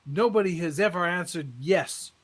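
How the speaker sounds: lightly voiced preacher building up. Preacher addressing the congregation.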